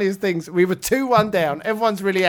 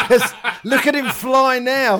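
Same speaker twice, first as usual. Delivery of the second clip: slow words broken by laughter; laughing through words; 2 semitones higher, slower than usual. Real, not acted. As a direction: talk while still cracking up. Still laughing at own joke.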